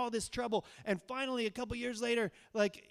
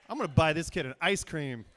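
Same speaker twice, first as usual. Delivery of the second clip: louder, gleeful proud outburst; mock delighted shout; 8 dB louder than usual. Big brother proudly rewarding the rock-throwing kid, gleeful mock shout. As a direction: shout it like the kid earned a prize.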